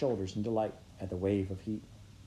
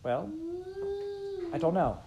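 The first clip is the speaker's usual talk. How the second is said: stammered. A narrator's reading.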